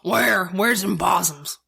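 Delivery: slow, drawn-out possum hunter; lightly voiced country possum hunter. Cohost imagining how a possum hunter talks, lightly mocking drawl. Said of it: "probably does sound like".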